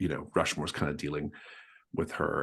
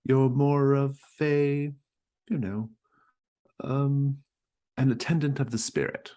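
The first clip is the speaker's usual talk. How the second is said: Mrs Stackpole voice. Acted. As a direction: chirp it up like a fussy hostess.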